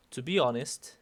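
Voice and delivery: honest left open before a comma; singsong lilt. Shown as a demonstration. Teacher showing an introductory phrase, singsong lilt. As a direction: swing the tune on "be honest". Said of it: "ciertas entonaciones como cantaditas".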